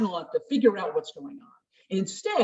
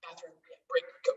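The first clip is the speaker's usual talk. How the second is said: quick self-instruction; 3 semitones lower, 17 dB quieter than usual. Shown as a demonstration. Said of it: "You can go".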